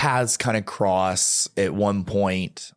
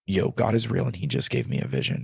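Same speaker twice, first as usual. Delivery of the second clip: frantic laughing blurt; 2 semitones lower, faster than usual. Retold or imitated. Telling a friend on the phone about the vision, frantic laughing blurt.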